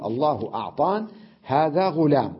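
no final ee on أعطان or غلام; ya dropped. Shown as a demonstration. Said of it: "حذفها وأسكن ما قبلها فتقول". (حذف الياء وتسكين ما قبلها)

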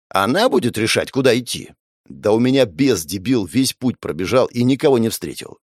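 ordinary delivery

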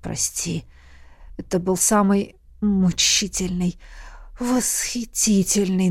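soft breathy apology; whisper. A narrator's reading. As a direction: whisper it close. King whispers.

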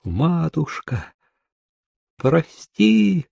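high, drawn-out plaintive cry; tearful shriek, understated. A narrator's reading. Sobbing girl begging mother's forgiveness, a restrained high wail. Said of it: "захлёбываясь рыданиями, верещала".

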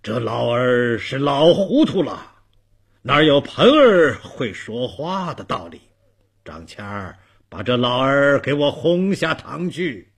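mildly angry official rebuke; annoyed magistrate. Acted. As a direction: dismiss the old man with restrained anger. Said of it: "包公生气地说". (略带怒气地斥责)

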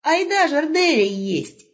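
put-on high, bright calling out to the old man; young wolf hailing grandpa; cheerful young wolf.

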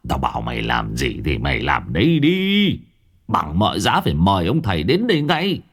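low, stern master's order; glaring command. Acted. Old master glaring, ordering servant Tý sternly. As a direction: glare and demand obedience. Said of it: "Lý Hương trợn mắt".

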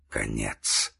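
very low, faint single word; weak dying voice. A narrator's reading. Dying man speaks of his end, faint and low. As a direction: sink low and soft, nearly spent.

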